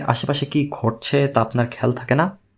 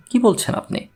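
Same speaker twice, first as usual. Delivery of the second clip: higher, startled disbelief; astonished; 7 semitones higher than usual. A narrator's reading. Rashidul Karim, stunned by Misir Ali's claim, astonished. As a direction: ask it as if you can't believe your ears. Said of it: "Rashidul করিম বিস্মিত হয়ে বললেন".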